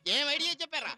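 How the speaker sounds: gleeful praise. Acted. Gleefully praising the friends' idea.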